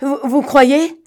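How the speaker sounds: trembling, quavering voice. A narrator reads a man's reply after another declares someone dead, trembling voice. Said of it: "fit Gilbert d'une voix tremblante".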